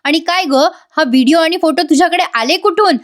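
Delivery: a retold father losing patience with his daughter; understated angry questioning, pitch climbing; irritated father. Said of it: "Prataprao चिडून म्हणतात".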